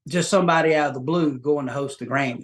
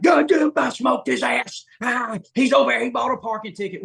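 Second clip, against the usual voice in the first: mock celebration shout; 9 semitones higher than usual. Guest imitating a rowdy hunter bragging about his deer, mock shout. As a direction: whoop it up like a hunter after a kill.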